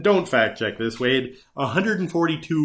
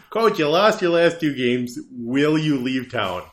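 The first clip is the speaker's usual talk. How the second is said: mock reporter question; slower than usual. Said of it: "question I wanted to ask".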